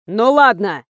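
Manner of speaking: a mild bark. Acted. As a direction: snap it out gruffly. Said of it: "рявкнул мистер Икс". (рявкнуть)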